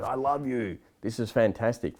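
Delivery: a light mock of a gushing Hollywood exec; mildly hammed-up executive flattery. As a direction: toss it off like a fake-sweet studio suit.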